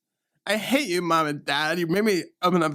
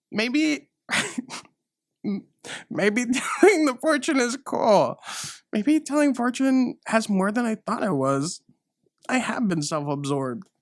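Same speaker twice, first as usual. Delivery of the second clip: high, lilting movie-heroine voice; high dreamy realization; 8 semitones higher than usual. Acted. Heroine discovering fortune telling is cool, high and dreamy. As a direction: sing it like a Disney epiphany.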